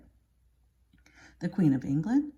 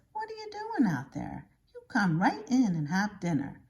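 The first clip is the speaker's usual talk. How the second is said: Poppy; 4 semitones higher than usual. Retold or imitated. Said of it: "Poppy says".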